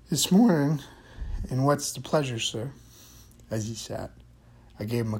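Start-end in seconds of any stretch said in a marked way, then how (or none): 0.1-2.7 put-on high, loud cheery old janitor; old custodian voice. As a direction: greet the boss like an eager old man.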